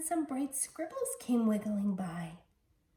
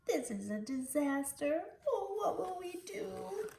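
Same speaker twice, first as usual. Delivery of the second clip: higher, rising to a breathy panicked whisper; crying scribbles; 9 semitones higher than usual. Acted. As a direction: wail in dismay, fading to a whisper. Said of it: "The scribbles all cried".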